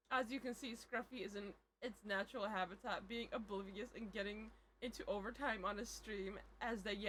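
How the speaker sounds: low, quiet documentary narrator; hushed wildlife narrator voice; nature documentary. Pretend. Narrates Scruffy in natural habitat.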